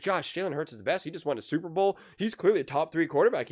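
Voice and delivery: high-pitched imitation of gushing fans; mock fan consensus. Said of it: "If everyone's like".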